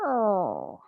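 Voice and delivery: low menacing meow; scary cat meow. Shown as a demonstration. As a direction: growl it like a spooky cat. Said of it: "Maybe a scary one".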